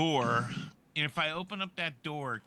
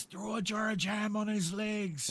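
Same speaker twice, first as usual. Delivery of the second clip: a slightly raised call down from above; yelling down; 9 semitones higher than usual. Acted. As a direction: call the order down to the others. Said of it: "he yells down anyway".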